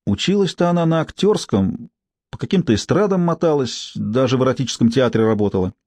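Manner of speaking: a hint of a brassy street woman; coarse street woman. Tsypka gossiping.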